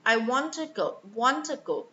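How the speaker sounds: "to" in "want to go" reduced to a short "tuh"; weak "to". Shown as a demonstration. Teacher models weak sounds, unstressed "to" in "want to go". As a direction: lighten "to" between "want" and "go". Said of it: "Putting less emphasis on grammar words".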